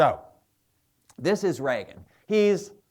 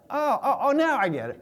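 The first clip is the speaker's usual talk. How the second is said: late laugh; 9 semitones higher than usual. Retold or imitated.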